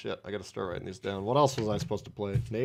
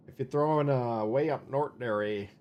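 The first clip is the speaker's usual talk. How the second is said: put-on light Minnesota accent with a tagged eh. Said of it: "Sounds more convincing".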